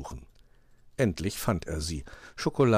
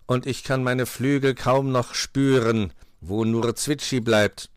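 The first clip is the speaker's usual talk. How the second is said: slowing, louder crow complaint; weary crow; 5 semitones higher, 5 dB louder than usual. A narrator's reading. Crow tires shaking beds, weary complaint. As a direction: complain wearily, dragging the end.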